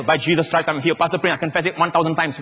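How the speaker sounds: run-together rote recital on one note; mechanical. Acted. Believer reporting to the pastor, confessing mechanically. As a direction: reel it off mechanically. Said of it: "It's not this kind of mechanical".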